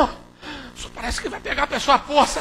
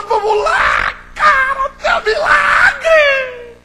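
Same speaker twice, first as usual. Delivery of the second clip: frantic, much higher hyped-up calling; excited urging shout; 6 semitones higher, 11 dB louder than usual. Acted. Disciple rousing the blind man, frantic joyful shout. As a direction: yell him up off the ground, laughing. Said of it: "Ele fala".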